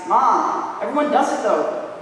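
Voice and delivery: lightly voiced protesting ten-year-old; a hint of a kid pleading with mom; mild mock child's complaint to a parent; classic kid's protest. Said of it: "what to say except the classic".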